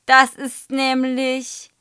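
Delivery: high, loud, drawn-out words; calling out. A narrator's reading. Amused pupil tries to explain, calling out. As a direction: call it out slowly and high.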